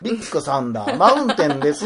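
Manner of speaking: mock standard-Japanese staff voice; Kanto dialect. Teasing her about work speech, mock Kanto accent. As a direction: say it in polite Tokyo intonation. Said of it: "関東弁で仕事中は喋っててん".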